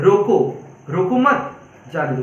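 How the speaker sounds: रोको set apart, then मत जाने दो; pause after रोको. Shown as a demonstration. Teacher showing a comma's effect, pause after रोको. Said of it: "पहला दो, पहला सेंटेंस".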